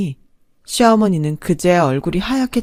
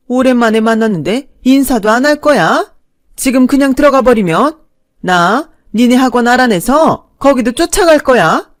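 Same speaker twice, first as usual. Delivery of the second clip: louder, higher pushy threat; bully her into staying; threatening mother-in-law; 7 semitones higher, 8 dB louder than usual. Acted. Mother-in-law threatening the wife outside, louder pushy threat.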